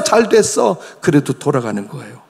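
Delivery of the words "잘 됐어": mock accusers. Repentant voicing mocking accusers.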